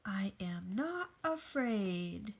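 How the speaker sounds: slow whisper, pretending not to be scared; hushed and slow, faking courage; whispered bravado. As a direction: whisper it slowly, trying to sound brave. Scared character claims bravery.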